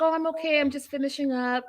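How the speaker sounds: high, falsely fine act; mock I'm-okay voice; put-on wife voice. Imitates wife hiding her crying.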